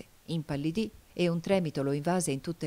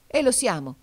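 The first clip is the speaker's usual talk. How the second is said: higher and louder, a burst of fervour; sudden passionate exclamation; 8 semitones higher, 7 dB louder than usual. A narrator's reading. Robespierre to his allies, rising from the table: sudden passionate cry. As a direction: fling it out as he leaps up. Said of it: "esclamò Robespierre con subitanea passione".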